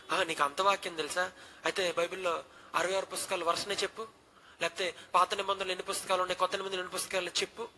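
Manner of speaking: stern dean. Retold or imitated. Stern dean quizzing scared boy.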